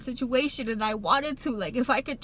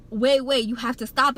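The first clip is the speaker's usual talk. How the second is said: louder, urgent retold cry to stop; re-live begging the doctor to stop, raised voice; retold urgent plea; 3 semitones higher, 7 dB louder than usual. Retells pleading with the doctor.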